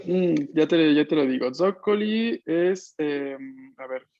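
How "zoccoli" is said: Zoccoli with the stress on ZOC, drawn out slowly; teacher showing Zoccoli stressed on ZOC; stress on first syllable. Shown as a demonstration. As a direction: hit ZOC in Zoccoli and slow right down. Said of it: "Acento en la primera parte".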